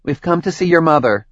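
steady, easy-going explanation; calm, even. Acted. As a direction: keep it light and calm. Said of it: "in a calm, even tone".

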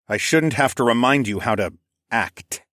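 "act" set apart with emphasis; stress on last word. A narrator's reading. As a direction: lean firmly on "act" at the end. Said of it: "I stated with emphasis on the last word".

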